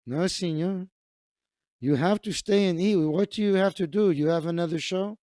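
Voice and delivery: put-on light Mexican accent, pressing. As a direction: coax the guest to stay, lightly Mexican. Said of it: "likes my Mexican voice".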